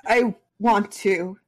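croaky, slow; croaked. Acted. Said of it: "Kageyama croaked".

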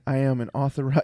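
loud mock British proclamation; British accent. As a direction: announce it in a hammed-up British accent. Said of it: "very British accent".

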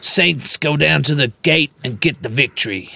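put-on sports announcer voice; Super Rugby commentator. Co-host spoofing the Saints match, mock commentator voice. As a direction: call it like a televised highlight. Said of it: "It's like Super Rugby".

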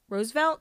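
Roosevelt as two syllables, ROSE-velt, questioning; trying out pronunciation. Shown as a demonstration. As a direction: test "Roosevelt" as ROSE-velt with a rising end. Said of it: "Should I say it one more time".

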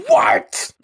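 very high, loud startled "What?"; shocked cat. Retold or imitated. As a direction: Artemis can't believe his ears. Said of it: "who is like".

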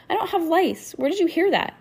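put-on high-pitched, distressed girl; upset denial. A narrator's reading. Girl denying rumor to her classmate, upset and tearful. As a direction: protest in a hurt, high voice. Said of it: "Lucy sniffed and fought back tears".

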